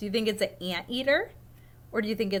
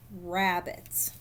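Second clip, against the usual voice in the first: low quiet rabbit voice; 5 semitones lower, 4 dB quieter than usual. Acted. Teacher reads the rabbit voice, low and soft. Reading two voices of book.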